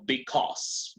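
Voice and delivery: BECAUSE with the AU as one dry, flat O; teacher models BECAUSE for the class, dry flat O. Shown as a demonstration. Say BECAUSE with a plain O, no U glide. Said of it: "Como una O seca y plana".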